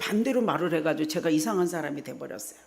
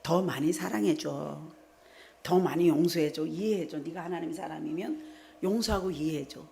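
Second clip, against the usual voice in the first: gentle plea from the Lord. Retold or imitated. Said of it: "주님이 이랬잖아요". (주님이 성도에게 부드럽게 타이르듯 조용히)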